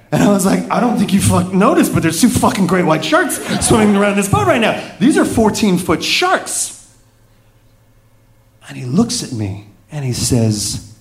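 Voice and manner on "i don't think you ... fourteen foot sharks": panicked. Retold or imitated. Panicked reply to the captain.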